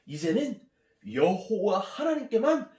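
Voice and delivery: high, loud declaration of faith; fervent confession. Acted. Healed general confessing his faith, fervent shout. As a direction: vow it boldly, voice soaring. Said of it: "이렇게 고백합니다".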